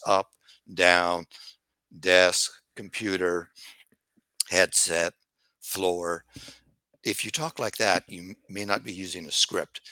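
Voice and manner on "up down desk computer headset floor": disjointed word salad, one word at a time. Shown as a demonstration. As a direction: list random words with long gaps, each falling on its own. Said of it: "if you talk like this".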